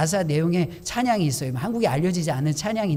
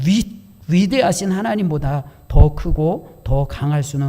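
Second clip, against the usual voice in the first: fervent spoken prayer, swelling louder in the middle; closing prayer; 4 dB louder than usual. Real, not acted. Pastor leading the congregation in closing prayer, fervent. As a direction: pray it with rising conviction, then settle.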